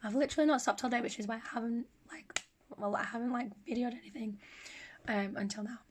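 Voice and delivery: hoarse, weak recovering voice; voice giving out. Real, not acted. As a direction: speak with a voice giving out. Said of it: "my voice is starting coming back".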